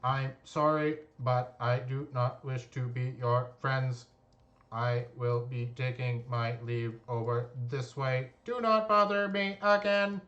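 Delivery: polite robot refusal, lightly voiced. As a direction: decline like a prim android. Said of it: "her robotic voice".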